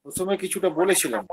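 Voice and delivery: echoing back on the line; cathedral echo. Real, not acted. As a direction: voice echoing through the call. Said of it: "ইকোই তো হচ্ছে মনে হচ্ছে।".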